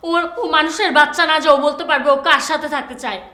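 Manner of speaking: fed up, pitch climbing into a furious rush; angry outburst. Acted. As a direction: lose patience and let the voice rise. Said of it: "চিৎকার করবে না তুমি এখানে".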